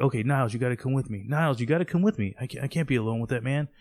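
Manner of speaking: mildly panicked, hurried pleading; freaking out. Retold or imitated. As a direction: speed up into a mock-desperate plea. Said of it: "is now freaking out".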